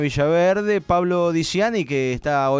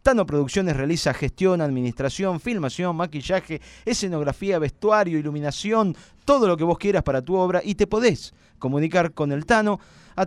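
brisk radio sponsor read. Acted. Host reads the production company ad, brisk radio ad voice. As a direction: sell the sponsor to listeners.

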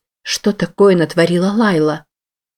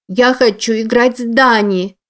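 put-on high, whiny little girl; a small child demanding to play; child's whine; 6 semitones higher than usual. A narrator's reading.

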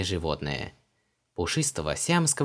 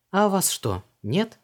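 put-on much higher, lively young woman; Vanessa's voice; 11 semitones higher, 3 dB louder than usual. A narrator's reading. Vanessa asks Creole about his customs, puzzled. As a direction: pitch her up, brisk and puzzled.

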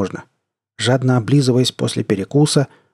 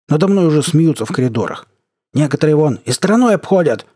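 building to a shout; 2 semitones higher than usual. Acted. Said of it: "переходя на крик к концу своего выступления".

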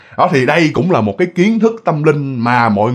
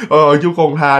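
a hint of a scared old man bowing and apologising; mild, hushed plea to the ghost for forgiveness; frightened pleading; 2 semitones lower than usual. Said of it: "ổng xá thế rồi".

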